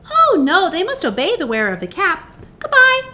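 high, loud mouse queen; squeaky little voice. A narrator's reading. Queen of the Mice advising lost Dorothy, squeaky. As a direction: pipe up like a small mouse. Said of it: "in her squeaky little voice".

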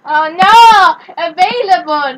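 put-on loud botched French accent; overdone accent on a drawn-out word; attempted accent. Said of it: "I tried to do my accent".

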